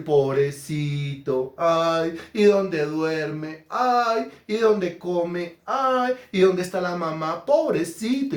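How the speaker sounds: drawn-out sweet pity; tender cooing. Retold or imitated. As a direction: coo over the little lamb like a baby. Cooing over a lamb.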